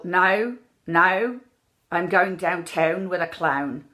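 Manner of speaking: "now", "downtown", "clown" with OW narrowed slightly toward "eye"; moderate Irish OW. Shown as a demonstration. Coach demonstrating the understandable version, "downtown" slightly narrowed. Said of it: "a little bit out of eye".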